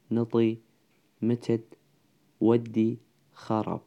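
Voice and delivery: word-by-word list reading with pauses between; pronunciation demonstration. Shown as a demonstration. Teacher pronouncing fixed roots for students, measured word-by-word demonstration. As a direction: say each root separately, evenly spaced.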